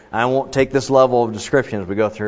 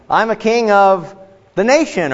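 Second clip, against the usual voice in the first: "king" said in a raised, boastful voice; proud king; 10 semitones higher, 5 dB louder than usual. Pretend. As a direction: claim the crown like a proud king. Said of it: "So I say".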